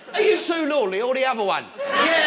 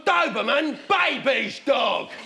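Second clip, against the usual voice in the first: scornful customer; slower than usual. Acted. Customer rejects the pet shop man's offer, mildly hammed-up scorn. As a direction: dismiss it, drawing out the last words. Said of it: "I've gone".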